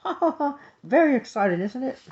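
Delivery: very high otter maid laughing. A narrator's reading. Otter maid teasing her friend's tale, high laughing voice. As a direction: laugh it out high, then talk through it. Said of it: "The otter maid laughed".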